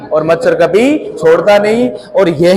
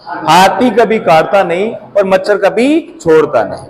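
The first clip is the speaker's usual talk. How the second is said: repeats the saying slowly and deliberately; slow proverb repeat. Shown as a demonstration. Teacher repeating a proverb to students, slow and deliberate. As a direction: lay out each word of the proverb. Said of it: "क्या बोला मैंने?".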